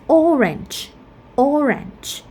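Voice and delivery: "orange" stressed on OR; "orange" as OR-ange, twice; first-syllable stress. Shown as a demonstration. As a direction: hit the first syllable of "orange", then let it fall. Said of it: "we stress at the first syllable".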